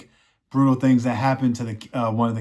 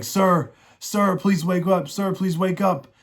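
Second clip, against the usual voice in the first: higher, desperate plea fading to a hush; pleading squire; 6 semitones higher than usual. Retold or imitated. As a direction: beg the fallen knight to wake, voice pitched up. Squire begs dying knight to wake.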